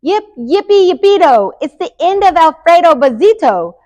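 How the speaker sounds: high-pitched storybook cheer; gleeful cheering. A narrator's reading. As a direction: yip it out high in celebration. Chihuahuas cheer at the news.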